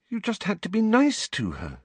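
put-on high, anxious girl's voice. A narrator's reading. Girl checks the boy was kind, anxious. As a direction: urge him with a touch of anxiety. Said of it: "looking up anxiously".

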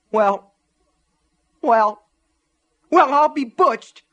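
very high, loud, rising outcry; stunned cry. A narrator's reading. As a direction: cry out, building with each word. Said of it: "she cried".

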